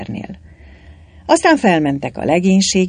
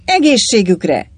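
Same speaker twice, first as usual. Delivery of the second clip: loud, higher-pitched cheers; joyful toast; 6 semitones higher, 5 dB louder than usual. A narrator's reading. The cobbler happily drinking to Pilot, joyful. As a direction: raise the glass gladly. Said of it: "ivott Pilotra örömmel a cipész".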